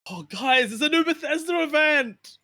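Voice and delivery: high, loud yappy excitement; yappy chihuahua voice. Acted. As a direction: yap it out like an excited little dog. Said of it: "Like a fucking rabid chihuahua".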